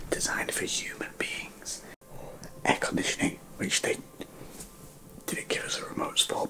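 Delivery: late-night hushed whisper; whispered vlog. Real, not acted. Telling viewers about the room at midnight, whispered. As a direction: whisper so as not to wake anyone.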